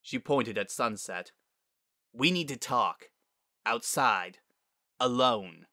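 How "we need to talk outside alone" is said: curt words with weighty pauses; stern demand. Acted. Spitfire summons Sunset outside, stern and controlled. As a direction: order a private word, holding it in.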